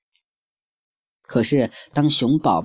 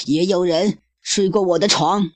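higher hammed-up growl of a voice; roaring mama bear; 7 semitones higher than usual. Mama bear echoing papa, hammed-up roar. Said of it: "熊妈妈也咆哮道".

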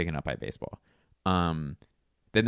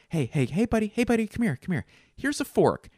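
put-on much higher, sing-song coaxing call to a kid; coaxing stranger. Comic calls a stranger's toddler over, high and coaxing. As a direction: lure the child over sweetly. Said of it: "what if I was like".

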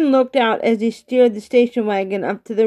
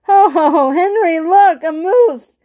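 high, loud excited call; shouting; 7 semitones higher, 5 dB louder, slower than usual. A narrator's reading. Man alerts the other canoe, shouting. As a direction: shout across the water, pitch well up. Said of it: "as he shouted to Henry".

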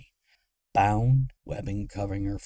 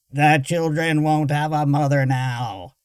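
higher, squawking machine voice; jittery squawk; 6 semitones higher, 7 dB louder than usual. Acted. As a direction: squawk with a trembling voice. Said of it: "the box squawked, its voice jittering".

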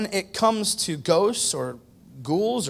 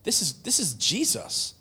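rebuking thief. Retold or imitated. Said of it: "The other thief looks at him and says".

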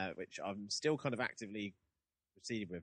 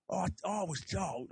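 put-on Cockney accent; 11 semitones higher, 5 dB louder than usual. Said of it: "he's got a proper Cockney accent".

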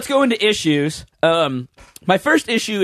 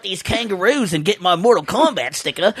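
put-on stereotyped Australian accent; 3 semitones higher than usual. Kano agreeing to fight kangaroos, mock Australian accent. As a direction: do a broad comic Australian. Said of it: "we did a lot of stereotyping right there".

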